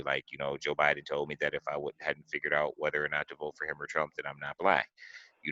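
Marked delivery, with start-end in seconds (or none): 0.6-4.9 softer, matter-of-fact quote; understated, unoffended delivery; calm retelling. Retold or imitated. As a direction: relay it calmly, without taking offence. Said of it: "he just said it very calmly".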